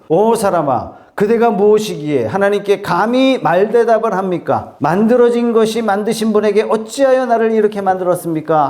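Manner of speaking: preacher voicing a stern scolding, pitch rising; thundering rebuke. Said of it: "벼락 같은 호통을 치고 있어요". (호통치듯 높아지는 어조)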